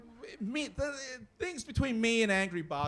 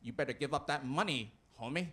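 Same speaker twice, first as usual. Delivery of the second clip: mugger; 5 semitones lower, 4 dB quieter than usual. Acted. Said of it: "somebody grabs me and goes".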